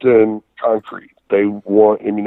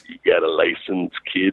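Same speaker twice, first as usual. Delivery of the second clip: Harley Race impression; 2 semitones lower, 5 dB quieter than usual. Harley asks a young wrestler about his license, Harley Race impression. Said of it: "impression of Harley there".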